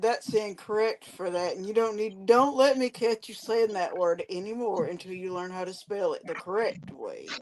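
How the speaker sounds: quiet teacher scolding. Retold or imitated. Teacher scolding a child, quietly. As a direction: hush it like a stern aside. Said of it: "And they said".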